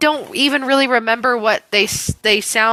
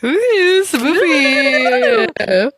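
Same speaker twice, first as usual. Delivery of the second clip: mock spooky; 6 semitones higher, much slower than usual.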